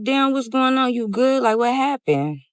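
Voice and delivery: concerned surprise. Retold or imitated. Asking furious friend what happened.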